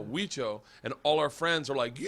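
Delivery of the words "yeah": high mock shout; re-enacted excited yell; imitated friends' cheer. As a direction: whoop like rowdy friends in the audience.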